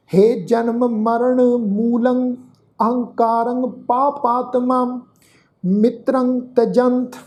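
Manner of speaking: slow, measured chanting of the slok; scripture recitation. Acted. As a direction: recite each phrase slowly and reverently. (ਹੌਲੀ ਸ਼ਲੋਕ ਪਾਠ)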